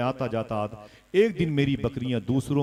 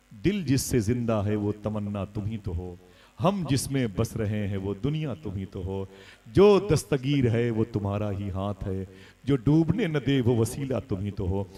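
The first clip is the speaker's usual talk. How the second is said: measured, rhythmic couplet delivery; devotional verse recitation. Acted. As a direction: recite it as devotional poetry, line by line. (नातिया शेर की लयबद्ध अदायगी)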